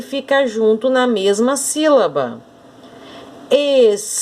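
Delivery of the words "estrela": Estrela in separate beats, es, tre, la; syllable by syllable. Shown as a demonstration. Teacher giving another example of separation, Estrela split into es, tre, la. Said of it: "Se eu separar".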